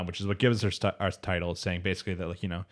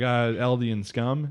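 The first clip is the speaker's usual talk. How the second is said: slow, drawn-out scornful insult; sneering contempt; 3 semitones higher, much slower than usual. Retold or imitated. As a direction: let the insult out slowly with scorn. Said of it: "And he's like".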